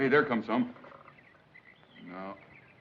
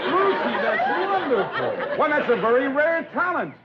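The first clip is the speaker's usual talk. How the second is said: laughing praise; 4 semitones higher than usual. Real, not acted. Delighted by her quacking.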